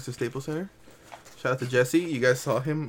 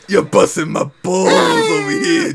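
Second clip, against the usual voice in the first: laughing exasperation; 5 semitones higher, 10 dB louder than usual. Real, not acted. Host's exasperated joking complaint.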